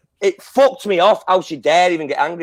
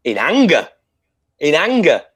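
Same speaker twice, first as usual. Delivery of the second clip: emphatic anger; 3 dB louder than usual. Retold or imitated. Wrestling fan recalls shouting at the TV, in anger. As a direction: spit it out as an indignant recap. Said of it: "I was fucking shouting at my T V".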